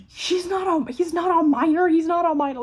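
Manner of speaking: loud, high mock imitation of her friend; mocking repeat. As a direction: ham up the friend's line for laughs. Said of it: "we kept laughing our ass off".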